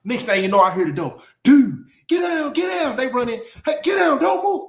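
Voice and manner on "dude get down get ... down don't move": police shouting orders. Retold or imitated. Officers rushing in, shouting at him to get down. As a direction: yell it like a cop kicking in the door.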